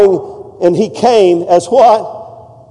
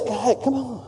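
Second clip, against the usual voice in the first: gentle invitation; 4 semitones higher, 13 dB quieter than usual. Pretend. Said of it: "he just says".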